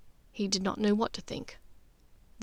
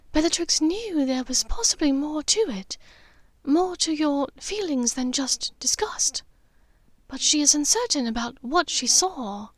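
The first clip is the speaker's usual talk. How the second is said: a hint of a calm, steady mother, a touch higher; Narcissa, lightly voiced; 4 semitones higher than usual.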